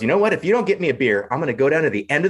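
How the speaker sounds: mock indignant threat. Bear threatens bartender over a beer, mock indignant. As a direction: play the bear losing patience, lightly.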